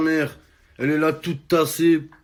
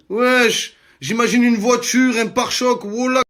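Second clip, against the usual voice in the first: excited; 8 semitones higher, 5 dB louder than usual. Real, not acted. Mocking the name Mégane.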